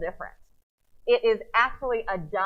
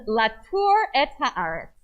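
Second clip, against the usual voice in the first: slow, emphatic Hebrew quotation; deliberate, drawn-out Torah quote; quoted Hebrew scripture; 7 dB louder, much slower than usual. Acted. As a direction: proclaim the verse word by word.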